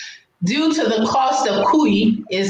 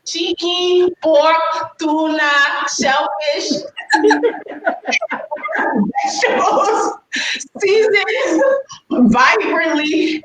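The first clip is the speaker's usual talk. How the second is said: laughing; 7 semitones higher, slower than usual. Real, not acted. Listing fillings, rising with laughter.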